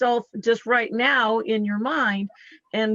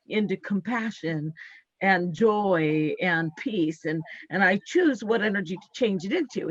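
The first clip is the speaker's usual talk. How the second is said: affirmation. Shown as a demonstration. Healer demonstrating her transmuting affirmation, calm and deliberate. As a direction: state it like a vow then let it settle. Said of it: "I'll say".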